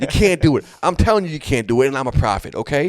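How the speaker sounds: mock indignant prophet insisting; annoyed. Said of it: "you can hear him getting annoyed".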